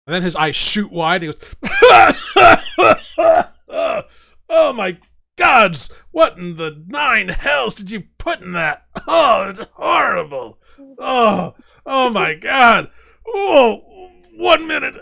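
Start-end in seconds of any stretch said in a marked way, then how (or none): 1.6-4.2 high, loud burst of spluttering cries; loud shocked outburst. Acted. Drunk gulps wake-up juice, reacts. 4.5-14.9 high, loud, drawn-out cries of revulsion; horrified disgusted wailing. Acted. Acts drunk's disgust at foul juice.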